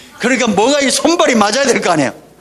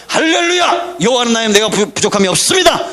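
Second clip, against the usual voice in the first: confident morning shout. Shown as a demonstration. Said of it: "새벽에 일어나서마자".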